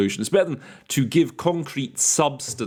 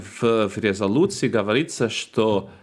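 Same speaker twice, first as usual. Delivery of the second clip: Russian delegate quote. Retold or imitated. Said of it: "in his Russian accent".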